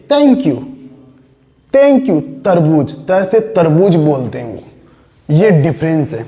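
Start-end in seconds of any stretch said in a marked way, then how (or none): 0.1-2.9 "Thank you" stretched out slowly, English accent; slow British "thank you"; British-style thank you. Shown as a demonstration. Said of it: "वो अंग्रेज लोग बोलते हैं".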